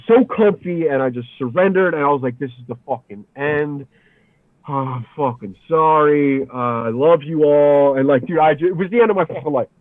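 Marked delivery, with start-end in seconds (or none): 2.4-8.0 resigned farewell. Retold or imitated. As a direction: give in and say a last goodbye slowly. Surrendering at the end.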